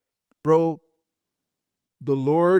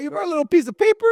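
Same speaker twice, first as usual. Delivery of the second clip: teasing surprise; 12 semitones higher, 5 dB louder, much faster than usual. Real, not acted. Teasing friend about paper notes.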